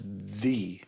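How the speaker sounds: the with a long EE, singling it out; stressed the, rhyming with see; emphatic THE. Shown as a demonstration. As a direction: say the as "thee". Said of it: "the most important".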